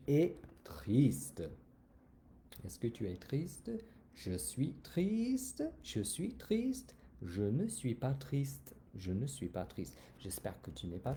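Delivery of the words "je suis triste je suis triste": higher, slow, softer whimper of fake sadness; mock sad. Shown as a demonstration. Teacher acting sad for the class, higher and slow. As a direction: pout the words out slowly like a sad child.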